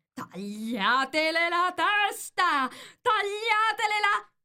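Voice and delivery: high, drawn-out royal shriek of rage; enraged yell. A narrator's reading. Furious Queen orders a beheading, screaming. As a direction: bellow the order, stretching it and climbing high. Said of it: "cominciò a urlare".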